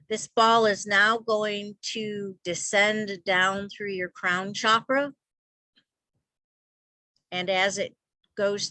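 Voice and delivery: measured meditation voice with long pauses; guided meditation. Real, not acted. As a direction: guide them gently into stillness, leaving space between phrases. Leads a guided visualization.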